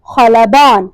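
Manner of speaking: خلبان said as "kha-la-BAAN", long final vowel; teacher's citation of خلبان, opening on a throaty "kh"; model pronunciation. Shown as a demonstration. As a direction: pronounce خلبان carefully for learners, with a falling end. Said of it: "پروناؤنس کیسے کریں گے".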